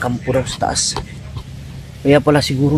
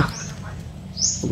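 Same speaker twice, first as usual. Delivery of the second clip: slow urgent whisper; 14 dB quieter than usual. Real, not acted. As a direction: hush it out slowly. Hiding, whispered warning.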